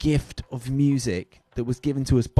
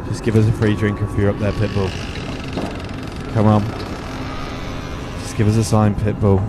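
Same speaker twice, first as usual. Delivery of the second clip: séance medium; 3 semitones lower than usual. Acted. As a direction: call out to the spirit like a hammed-up medium. Calls on a rapper like a séance.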